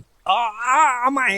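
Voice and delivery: put-on high, drawn-out boyish realisation; slow, high-pitched fluster; flustered little boy. A narrator's reading. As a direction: scramble to start over like a corrected kid. Boy flustered, starting over.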